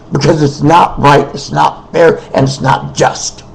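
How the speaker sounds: really worked up, pleading against unfairness; emotional. Real, not acted. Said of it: "I get emotional about this kind of stuff".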